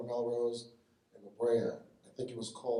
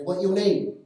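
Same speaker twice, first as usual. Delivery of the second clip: higher, louder clipped salon boss in a mock Asian accent; 6 semitones higher, 8 dB louder, slower than usual. Salon boss greeting the tall customer, mock Asian accent.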